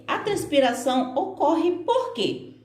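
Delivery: quê stressed at the end of the question; stress on final quê. Shown as a demonstration. Teacher showing stress on quê at the end. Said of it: "eu dou uma ênfase maior no final".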